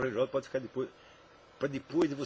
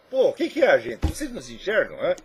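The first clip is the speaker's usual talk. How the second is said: exasperated outburst; 3 semitones higher, 9 dB louder than usual. Real, not acted.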